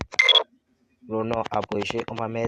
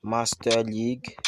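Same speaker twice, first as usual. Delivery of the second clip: Master League stretched out slowly, both words drawn long; slow spelled-out name; much slower than usual. Shown as a demonstration. Tutorial host slowly naming the menu for viewers. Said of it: "vous cherchez".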